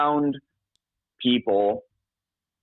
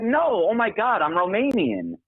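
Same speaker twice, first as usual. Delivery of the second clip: imitating offended girl; 9 semitones higher than usual. Caller voices offended girl in anecdote.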